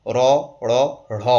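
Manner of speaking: র, র, ঢ় separated as plain R, flap, breathy flap; three distinct R sounds. Shown as a demonstration. Teacher contrasts three sounds for learners, র, র, ঢ় spaced apart. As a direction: step from "ro" to "ṛo" to "ṛho" in র, র, ঢ়. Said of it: "তিনটে উচ্চারণ ঠিকঠাক রাখবেন".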